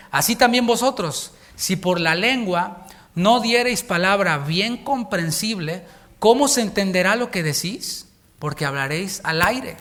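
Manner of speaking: slow, solemn Bible reading; measured preacher reading scripture. Acted. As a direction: read the verse slowly and gravely. Reads scripture aloud.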